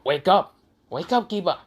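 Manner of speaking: mildly urgent calling to rouse a friend; urging awake. Acted. Hinata telling Kiba to wake up, urgent.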